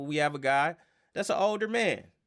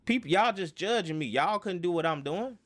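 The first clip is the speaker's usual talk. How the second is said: mock-defiant player waving off critics; a hint of stubborn excuse-making; defiant denial; 4 semitones higher than usual. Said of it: "That's unaccountable".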